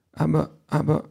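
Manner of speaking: put-on high little child's protest. A narrator's reading. Child objects to mother's plan, protesting. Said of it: "widerspricht das Kind".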